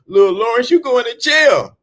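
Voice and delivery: put-on the mother accusing the boy; angry mother. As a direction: yell it like a furious mom. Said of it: "his mother said".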